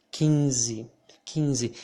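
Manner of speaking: quinze said slowly with a nasal ĩ, kĩnzi; slow clear quinze; nasal vowel. Shown as a demonstration. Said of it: "here I would say".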